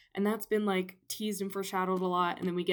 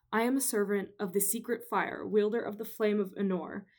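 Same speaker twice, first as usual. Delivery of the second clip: lightly voiced Gandalf. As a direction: read it as a grave wizard, lightly. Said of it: "read this little paragraph".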